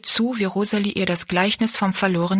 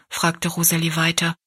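usual speaking voice

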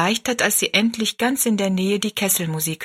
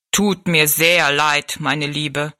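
lower, very slow, gentle giant; slow sorry giant; 4 semitones lower, much slower than usual. Acted. Giant tells Rosalie he is sorry, slow low voice. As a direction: apologise slowly from far above. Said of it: "wiederholte der Riese".

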